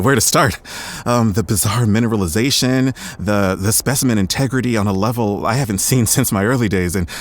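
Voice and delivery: breathless enthusiasm building to a peak; excited gushing. Acted. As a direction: rattle it off like a thrilled scientist. Gushing about the fossil.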